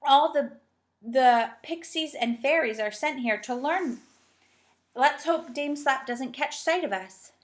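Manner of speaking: slow, tense worried voice. A narrator's reading. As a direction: fret in a hushed hurry. Moonface fearing Dame Slap.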